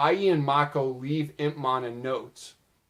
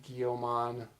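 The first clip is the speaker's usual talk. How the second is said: softer, let-down sigh of a name; disappointed; 2 semitones lower, 7 dB quieter than usual. Retold or imitated. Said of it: "in a disappointed voice".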